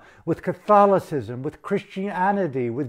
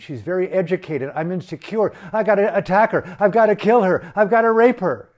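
builds from plain to loud and higher, ranting; mock inner voice of the general; 4 semitones higher, 5 dB louder, faster than usual. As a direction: voice the dictator's hateful reasoning as it escalates. Voicing the general's twisted thinking.

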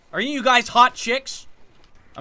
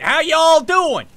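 broad, drawn-out country accent, higher and louder; 5 semitones higher, 5 dB louder, much slower than usual. Shown as a demonstration. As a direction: ham up the country accent, slowly. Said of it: "It's my country accent".

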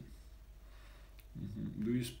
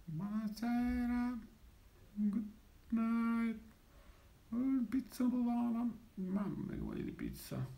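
jolly italian pizza chef; 5 semitones higher than usual. Pretend. Pizza talk with Italian phrases.

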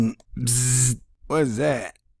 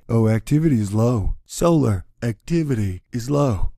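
a hint of a smug scientist; lightly voiced smug scientist; mocking scientists. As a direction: dismiss it smugly. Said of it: "science boys will say".

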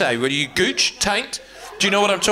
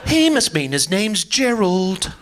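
posh English. Retold or imitated. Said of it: "they'll think".

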